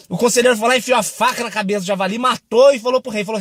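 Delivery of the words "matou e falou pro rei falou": normal talking voice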